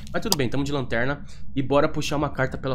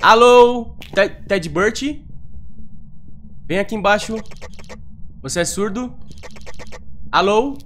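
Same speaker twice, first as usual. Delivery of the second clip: calling out; 7 semitones higher, 5 dB louder than usual. Real, not acted. Calling the ghost by name.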